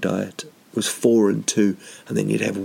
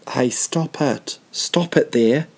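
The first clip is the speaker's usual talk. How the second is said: voice of authority; 3 semitones higher, slower than usual. Retold or imitated. Dreamer confronting a nightclub fool, voice of authority. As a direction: stop him like a bouncer laying down the law. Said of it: "like a very, you know, voice of authority".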